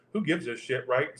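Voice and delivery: dropped way down, under the breath; muttered aside. Real, not acted. Tarot reader muttering to herself mid-read, under the breath. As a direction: mutter it to yourself, tossing it off.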